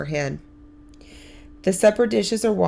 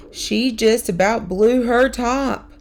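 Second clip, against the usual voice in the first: put-on excited boy voice; 5 semitones higher, 4 dB louder, slower than usual. Boy reports angry mother.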